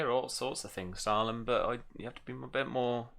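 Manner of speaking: Norfolk village barmaid voice; Norfolk accent. Acted. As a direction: warm Norfolk country accent. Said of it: "My Norfolk accent is clearly not good enough".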